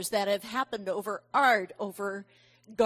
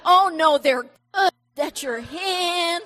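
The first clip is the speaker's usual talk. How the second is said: put-on much louder and higher, eager kids' protest; kids reassuring; 6 semitones higher, 10 dB louder than usual. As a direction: cheer her up like an eager child. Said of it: "And they're like".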